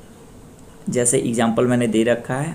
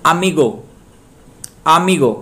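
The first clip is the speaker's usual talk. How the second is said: अमीगो with मी strong and गो falling; stress on middle syllable; 3 semitones higher, 4 dB louder than usual. Shown as a demonstration. Teacher demonstrates the stress rule, stressing मी in अमीगो. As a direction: lean hard on the मी of अमीगो. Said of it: "मी पे stress दे".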